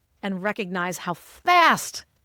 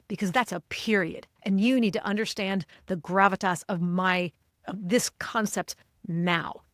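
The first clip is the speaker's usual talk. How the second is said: a lightly raised, emphatic presenter voice; emphatic point. Shown as a demonstration. To the leadership team, a lightly emphatic presenter voice. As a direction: stress the key points and let it drop at the period. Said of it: "as opposed to".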